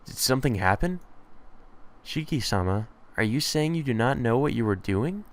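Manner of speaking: soft, gently questioning maid; lightly voiced polite maid, concerned. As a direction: lightly play a concerned servant, softly.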